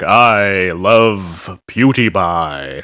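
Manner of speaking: low, very slow, drawn-out voice. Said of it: "He's just like".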